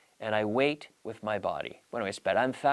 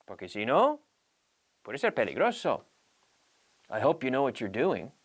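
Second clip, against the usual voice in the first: doubtful warning. Shown as a demonstration. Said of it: "what I'm saying here is".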